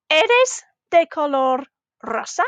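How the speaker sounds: slow, word-by-word "Eres de color rosa", voice turning up at the end of "rosa"; "Eres de color rosa" measured, with an upturn on "rosa"; rising question. Shown as a demonstration. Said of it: "our voice was going up at the end".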